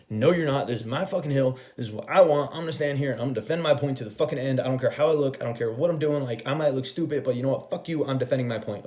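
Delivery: insistent mock stand-your-ground outburst; defiant. Imitating someone defending their hill, defiant. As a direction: dig your heels in, defiantly.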